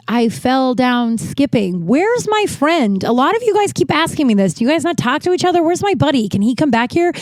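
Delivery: whiny impatient demands; mock exasperation at the nurses; exasperated patient.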